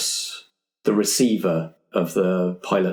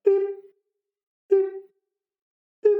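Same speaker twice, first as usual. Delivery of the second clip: imitated beep; much faster than usual. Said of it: "you can hear a".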